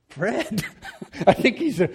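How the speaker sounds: plaintive mock sob; mock weeping. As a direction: imitate a weeping man calling out. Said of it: "now he's weeping".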